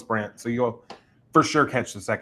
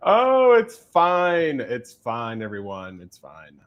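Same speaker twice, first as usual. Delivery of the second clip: drawn-out mock reassurance fading away; mock it's fine; much slower than usual. Host laughing off her syllable slip, mock calm fading. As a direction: say it's fine, then let it trail off to nothing.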